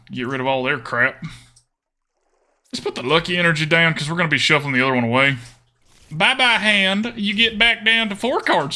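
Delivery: put-on folksy country Southern accent. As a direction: put on a playful Southern twang.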